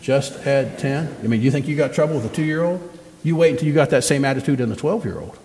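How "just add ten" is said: "Just add ten" said slowly, each word drawn out, as the congregation repeats it; slow call and response. Shown as a demonstration. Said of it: "Say that with me".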